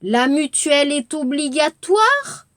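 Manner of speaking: "La mutuelle est obligatoire?" rising on "obligatoire"; rising question. Shown as a demonstration. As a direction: lift "obligatoire" at the end. (끝을 올리는 질문)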